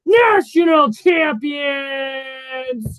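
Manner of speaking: high, loud victory shout; triumphant shout. Real, not acted. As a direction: bellow it like a gloating fan. Gloating about Michigan's title win.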